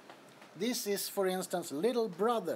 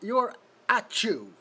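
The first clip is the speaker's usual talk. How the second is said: playful exclaim; 6 semitones higher, 6 dB louder than usual. Real, not acted. Repeating viewer's sneeze sound.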